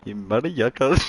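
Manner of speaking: put-on tossing out mother yucca in a joke Indian accent; mock Indian accent. Repeating his joke insult, mock Indian accent. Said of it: "How do Indians say motherfucker".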